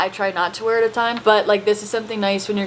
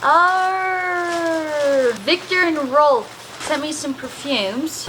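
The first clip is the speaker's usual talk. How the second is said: put-on Australian accent; 3 semitones higher, slower than usual. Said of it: "I can't stop talking in an accent".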